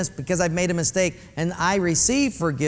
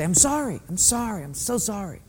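fading fake sorry. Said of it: "so we say".

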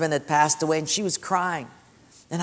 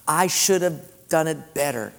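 humble confession. Retold or imitated. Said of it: "repent and simply say".

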